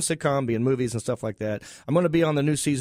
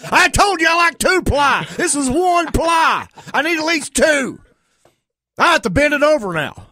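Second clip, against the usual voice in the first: hammed-up redneck whine, pitched way up; redneck complaint; 12 semitones higher, 8 dB louder than usual. Redneck toilet paper ad, mock aggrieved hick. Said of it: "product placement".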